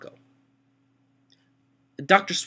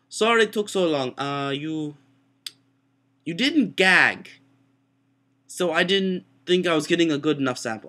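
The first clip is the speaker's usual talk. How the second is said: lightly imitated Mexican-accented doctor; a doctor's apology in a mock Mexican accent; 3 semitones higher than usual. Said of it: "Mexican accent".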